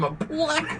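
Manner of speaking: penguin squawk. Retold or imitated. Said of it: "Not just a regular bam".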